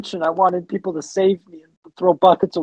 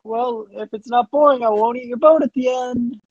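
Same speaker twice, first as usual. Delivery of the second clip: kraken voice; 5 semitones higher, 3 dB louder than usual. Acted. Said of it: "I'm a kraken".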